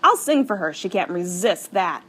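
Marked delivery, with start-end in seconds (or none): 0.0-0.7 excited. A narrator's reading. Excited friend voiced in story.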